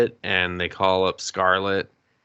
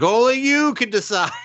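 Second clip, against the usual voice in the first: mock wise master; 13 semitones higher, 5 dB louder than usual. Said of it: "And he's just like".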